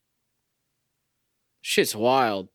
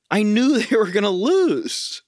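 laughing; 5 semitones higher, 3 dB louder than usual. Real, not acted. Laughs at own anger.

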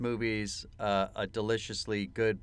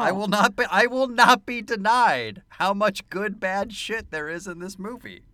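louder, higher, emphatic declaration; emphatic insisting; 7 semitones higher, 5 dB louder than usual. Real, not acted. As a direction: insist loudly, fired up. Insisting loudly on the movie.

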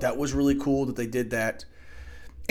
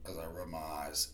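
whispered aside; 8 semitones lower, 15 dB quieter than usual. Real, not acted. Aside while rubbing his eyes.

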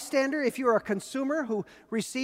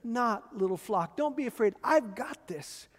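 tender; slower than usual. Acted. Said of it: "the tender voice of Jesus calling out".

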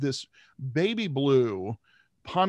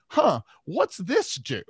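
put-on slow, curious kid voice; a lightly voiced curious little boy; little brother; 5 semitones higher, slower than usual. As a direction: kid poking at the gear shift. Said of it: "And little brother says".

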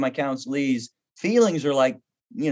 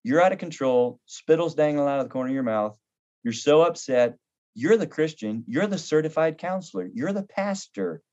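a hint of a patient inner voice; gentle rebuke. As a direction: lovingly call him out. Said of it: "the Holy Spirit said".

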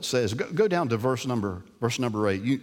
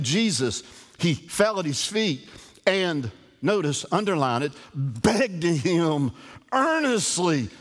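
fired-up preaching; 3 semitones higher than usual. Acted. Preacher urging his congregation through the Bible, fired-up and fast. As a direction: press the point home, climbing.

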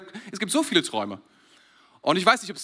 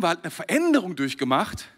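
ordinary talk

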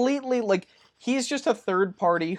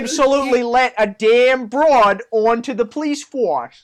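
1950s ad; 3 semitones higher, 4 dB louder than usual. Pretend. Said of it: "a nineteen fifties announcer voice".

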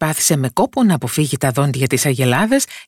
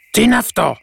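startled, higher-pitched question; lightly acted fright, pitch raised; frightened robber; 8 semitones higher, 3 dB louder than usual. A narrator's reading. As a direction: ask it with a touch of alarm. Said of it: "ρώτησε τρομαγμένος ο ένας ληστής".

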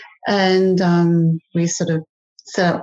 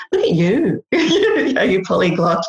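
laughing quote. Retold or imitated. Retelling colleagues' praise, laughing.

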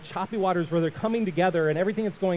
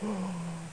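soft acted intake of breath; acted gasp; 12 dB quieter than usual. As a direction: gasp quietly in mock alarm. Mother walks across the boat.

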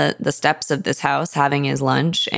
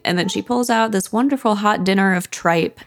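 usual speaking voice

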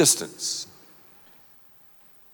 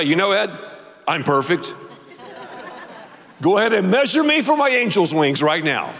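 smug mock boast; faster than usual. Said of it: "I've never heard someone say".

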